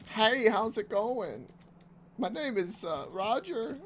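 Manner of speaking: squeaky awkward nerd asking to play. Pretend. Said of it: "give us your nerd voice".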